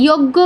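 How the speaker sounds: যজ্ঞ said yoggo, with doubled g; wrong g reading. Shown as a demonstration. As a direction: say যজ্ঞ with y and a hard g. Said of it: "বলা যাবে না". (যজ্ঞ, গ দিয়ে ভুল উচ্চারণ)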